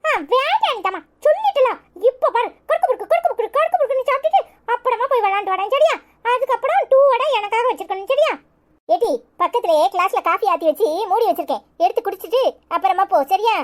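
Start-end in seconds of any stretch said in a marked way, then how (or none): 0.0-8.3 put-on high-pitched little kid voice; high, playful kiddie voice; playful child. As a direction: tease like a cheeky small child. Child chats about snacks.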